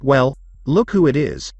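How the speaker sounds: slow, snobbish and smug; haughty. Acted. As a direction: look down your nose at him. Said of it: "said with a haughty tone and a snobbish smirk".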